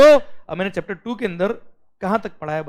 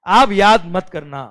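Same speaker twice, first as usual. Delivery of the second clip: slow emphatic urging; 10 dB louder, much slower than usual. Real, not acted. Teacher urging students.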